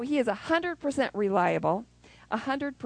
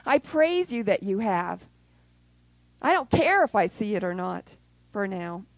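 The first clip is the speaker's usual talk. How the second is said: louder, earnest thanksgiving; confident praise; 2 semitones higher, 5 dB louder than usual. Retold or imitated. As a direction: praise God out loud with confidence.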